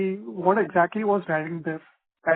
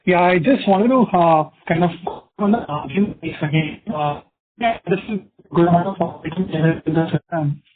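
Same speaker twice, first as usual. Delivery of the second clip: muffled, like a hand over mouth; 6 dB louder than usual. Real, not acted. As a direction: talk through a covered mouth. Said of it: "your voice is very muffled".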